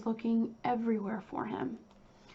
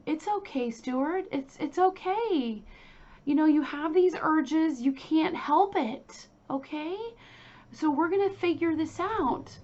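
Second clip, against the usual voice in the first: imitating a coddling mother, higher pitch; higher-voiced, mock-soothing reassurance to a son; 5 semitones higher, 4 dB louder than usual. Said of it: "like, coddling him".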